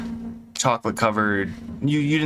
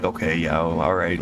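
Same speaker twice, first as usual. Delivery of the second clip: flat, unimpressed okay; humoring him, barely interested; indifferent; 5 semitones lower than usual. Acted. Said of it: "kinda like, indifferent".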